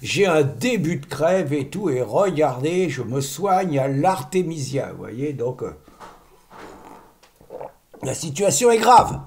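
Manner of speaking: low and shaky with a cold; sick voice. Real, not acted. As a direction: sound sick and trembling. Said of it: "comme vous entendez, c'est pas la forme".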